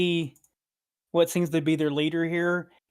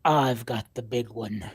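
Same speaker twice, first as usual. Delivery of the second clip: gravelly sly hobgoblin; 4 semitones lower than usual. Acted. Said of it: "He says".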